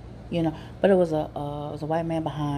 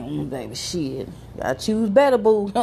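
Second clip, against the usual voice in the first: sassy put-down. Retold or imitated. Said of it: "I'm like".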